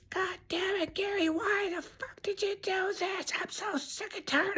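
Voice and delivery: very high, held-back angry shriek, kept soft; mock a livid wife in a squeezed high voice; imitated furious mother. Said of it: "she's just pissed".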